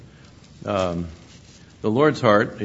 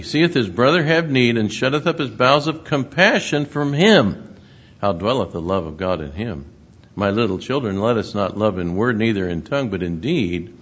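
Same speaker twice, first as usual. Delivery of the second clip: louder, measured King James reading; scripture reading; 4 dB louder than usual. Acted. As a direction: proclaim the verses to the congregation. Reads scripture aloud.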